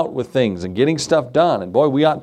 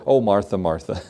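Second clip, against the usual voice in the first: gentle rebuke; 6 semitones lower than usual. Retold or imitated. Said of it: "What does He say?".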